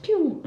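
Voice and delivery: drawn-out "pew" for a slap; long mimed slap noise; imitated backhander. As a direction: sound out a swinging backhander. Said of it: "but just a backhander".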